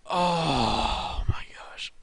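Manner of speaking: very slow, half-sobbed groan; hammed-up crying moan; mock sob. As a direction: wail it like a sore loser, half joking. Just had to resign.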